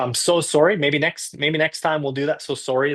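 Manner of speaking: heavy, strong Canadian accent. Apologizing to a viewer for not going there this time: very canadian accent. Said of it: "that's a very Canadian accent right there".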